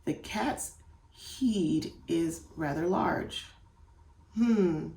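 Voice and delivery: slow, halting mock child read-aloud. Shown as a demonstration. Child sounding out a sentence slowly for the parent. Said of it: "So they'll read".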